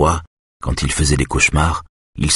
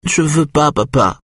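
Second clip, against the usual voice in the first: put-on high, plaintive child's refusal; sad little boy; 12 semitones higher than usual. A narrator's reading. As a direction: plead unhappily in a small child's high voice. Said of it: "dit-il d'une voix triste".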